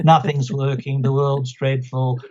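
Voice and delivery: slow, mildly mocking gloom; lightly voiced doom and gloom; emotional vampire. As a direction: imitate a draining client's misery. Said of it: "one of these emotional vampire types".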